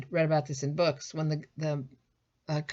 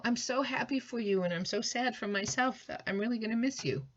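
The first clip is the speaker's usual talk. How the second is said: sincere mixed feelings; 6 semitones higher than usual. Shown as a demonstration. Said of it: "And you can say that".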